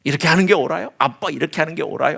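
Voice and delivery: lightly voiced child demanding is this right; a hint of a defiant kid arguing with parents; sulky child talking back. A child talking back to mom and dad, mildly petulant. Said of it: "하면서 막 대드는".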